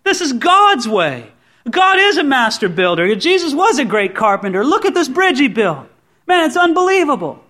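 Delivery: delighted Paul marveling at God's bridge; excited Paul. Acted. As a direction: gush over the bridge like a thrilled convert. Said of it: "And Paul's so excited".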